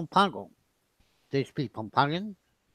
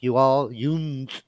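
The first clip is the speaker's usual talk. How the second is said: slow Tennessee mountain drawl; much slower than usual. Retold or imitated. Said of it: "That's how they speak".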